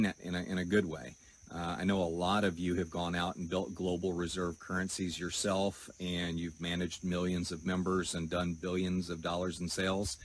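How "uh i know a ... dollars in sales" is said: dry, mock-admiring sarcasm; deadpan sarcastic praise. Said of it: "I'm being really sarcastic right now".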